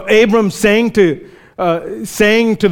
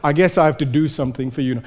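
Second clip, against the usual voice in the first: reluctant God; 3 semitones lower, 4 dB quieter, much faster than usual. Retold or imitated. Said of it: "and God's like".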